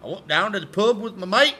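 playful put-on Australian accent. Shown as a demonstration. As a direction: slide the English accent toward Australian. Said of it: "that's more Australian".

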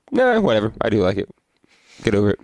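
dismissive self-talk. Retold or imitated. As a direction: shrug off your own doubt. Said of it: "I'm like".

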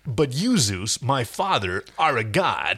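put-on Austrian accent. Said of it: "Arnold Schwarzenegger in Hercules".

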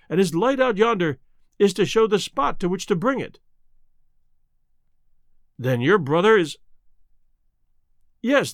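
a wife confessing in despair; anguished wife. Acted. Mrs Barrymore voiced.

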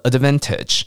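"advantage" with a lightly released final J; soft ending. Shown as a demonstration. Teacher shows learners the light ending, soft-ending "advantage". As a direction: say "advantage", keeping the last J sound gentle. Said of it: "尾巴轻轻的".

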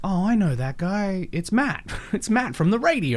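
a touch of a starstruck industry fan; mock excited fan. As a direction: gush like a starstruck casting exec. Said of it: "they'll go like".

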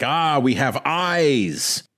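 slow, drawn-out creepy whisper-like menace; sinister Coppelius. Retold or imitated. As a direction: savor each word like a madman. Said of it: "Coppelius says something like".

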